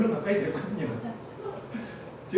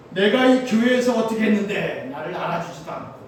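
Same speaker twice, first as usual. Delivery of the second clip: mock grumbling; 6 dB louder than usual. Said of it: "뭐 이런다 이거죠".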